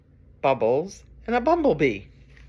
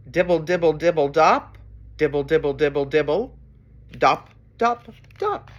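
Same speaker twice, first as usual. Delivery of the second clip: rain patter; 3 dB louder than usual. Acted. Reader imitating rain for children, rhythmic patter and drops. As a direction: patter like falling raindrops. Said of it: "He can sound like the rain".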